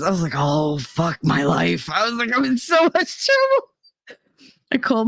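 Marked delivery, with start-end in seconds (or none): 0.4-1.9 slow, dragged-out dread; despairing groan. Retold or imitated. Realizing she missed eighteen pages, slow despairing groan. 2.4-4.2 high, slow whine of dread; mock panic. Realizing her boyfriend called all night, high panicked whine.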